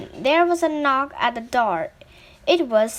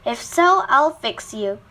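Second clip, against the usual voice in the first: threatening; 5 dB louder than usual. Acted. Scared man threatens the wood.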